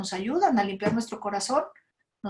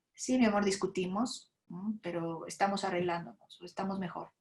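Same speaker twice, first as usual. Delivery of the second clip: padre tranquilizador; 6 dB quieter than usual. Retold or imitated.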